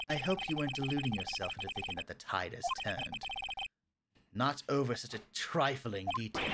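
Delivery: low, condescending courtroom rival; cool, dismissive prosecutor. Acted. Voices the opposing prosecutor.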